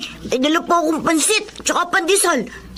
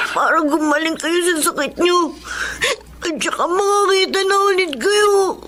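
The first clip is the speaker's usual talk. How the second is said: put-on tearful, pleading boy; a child crying to his mother; crying apology; 3 semitones higher than usual. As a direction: sob out the excuse. Boy confesses to blind mother.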